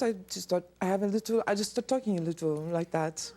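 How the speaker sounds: lightly put-on French accent. Shown as a demonstration. Guest showing how they match French speakers, light French accent. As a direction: slip into a slight French accent. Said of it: "a French accent".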